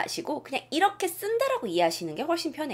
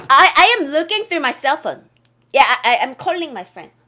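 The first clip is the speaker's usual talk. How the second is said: mock flustered learner; 2 semitones higher, 8 dB louder, much slower than usual. Mocking learners' wrong answers.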